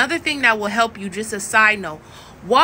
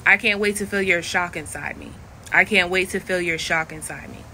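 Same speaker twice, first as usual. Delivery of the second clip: lightly put-on phone persona; Haley; 4 semitones lower, 3 dB quieter than usual. Shown as a demonstration. Phone worker speaking to a caller, in persona. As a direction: say it in a slightly lowered persona voice. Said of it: "This is me saying it as Haley".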